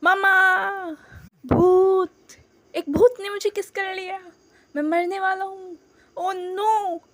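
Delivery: high, loud terrified yelling; panicked shout. Acted. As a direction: scream for your mother at a ghost. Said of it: "चिल्लाता है".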